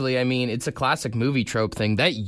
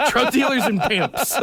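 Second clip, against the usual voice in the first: laughing; 9 semitones higher than usual. Real, not acted. Laughing aside.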